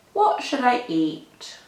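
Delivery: usual speaking voice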